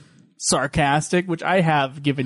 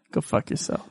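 low, voiceless mutter; whispered mock curse; 7 dB quieter than usual. Host cursing a teasing co-host, in a mock-bitter whisper. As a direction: whisper the insult under your breath.

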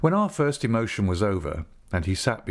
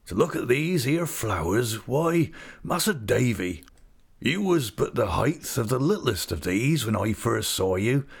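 broad rustic English dialect, fondly marvelling; hearty old countryman. Acted. Old visitor admires his friend's children, fond rustic voice.

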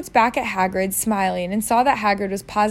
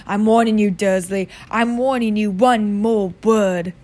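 menacing Hagrid. Acted. Hagrid threatening Vernon with umbrella.

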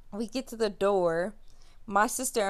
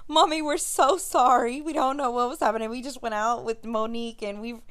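pleading apology; 3 semitones higher than usual. Retold or imitated. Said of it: "I'm like".

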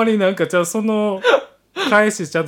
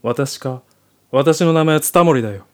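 lower, curt soldier voice; gruff soldier; 3 semitones lower, 3 dB louder than usual. Acted. Soldier welcoming the heroine home, gruff and curt. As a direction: play a tough guy hiding embarrassment.

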